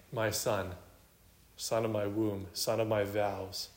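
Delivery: mildly tender, unhurried and subdued; tender motherly. Acted. Mother addressing her son in personal terms, tenderly. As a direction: linger gently on each endearment. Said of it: "personal, tender, motherly terms".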